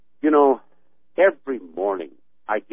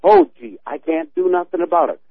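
high, louder whiny mockery; mock whine; 7 semitones higher, 5 dB louder than usual. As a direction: whine it like a helpless complainer. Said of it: "whining and crying and saying".

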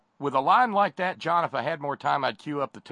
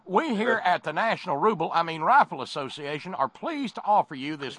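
hammed-up Russian accent, high and loud; mock Russian accent; 7 semitones higher, 3 dB louder than usual. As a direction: play a Russian lobbyist with a thick fake Russian accent. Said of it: "like my stupid Russian accent".

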